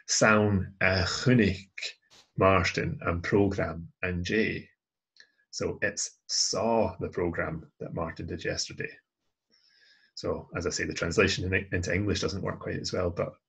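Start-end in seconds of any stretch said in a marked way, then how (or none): 0.1-4.7 "chunic" slow and fronted, then a pause; stress on CHUNIC. Shown as a demonstration. Teacher showing a fronted Gaelic verb, stressing "chunic". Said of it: "So we're emphasizing the action". 5.8-8.9 "saw" set apart and leaned on; stress on SAW. Shown as a demonstration. Teacher repeating the awkward translation, stressing "saw". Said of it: "this time we're emphasizing the action".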